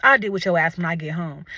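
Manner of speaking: retold low, stern telling-off; stern parent. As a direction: warn like a fed-up mother. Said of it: "You know when parents say that".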